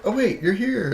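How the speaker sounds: high, swooping double take; imitating a puzzled visitor; confused surprise. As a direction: exclaim it high as if caught out. Voicing confused visitors seeing a colleague.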